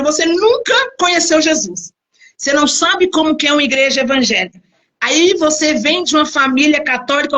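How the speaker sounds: ordinary delivery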